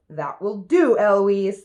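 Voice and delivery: mild mock shout; shouting back. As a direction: copy the tutor, raising the volume. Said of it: "And then I shout".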